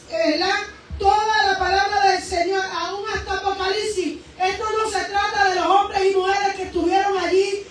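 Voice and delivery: rising, emphatic sermon voice; full-voiced Pentecostal preaching; fervent preaching. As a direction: preach it out to the church with fervor.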